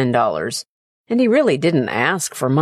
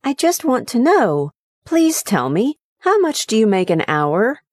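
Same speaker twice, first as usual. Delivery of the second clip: put-on high, earnest childlike pleading; little boy pleading; 7 semitones higher than usual. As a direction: son pleading with his father, childlike. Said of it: "pleaded the little boy".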